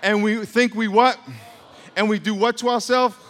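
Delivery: high, loud questions; rousing questions. Real, not acted. Preacher quizzing the congregation again, high and loud. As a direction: push the crowd to answer.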